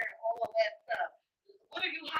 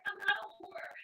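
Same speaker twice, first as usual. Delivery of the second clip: higher-pitched imitated protest; mock protest; 7 semitones higher than usual. Woman answering the man insulting her, mock protest. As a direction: protest it in a raised, put-on voice.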